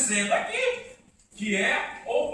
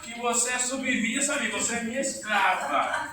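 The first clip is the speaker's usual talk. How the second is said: mock bossy husband; 5 dB louder than usual. Mocking bossy husband to wife.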